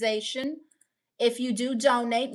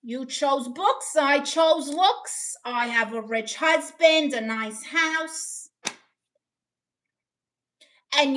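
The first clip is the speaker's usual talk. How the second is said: movie mother impression. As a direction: lightly put on a snooty movie mum. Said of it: "people say I sound like a mother".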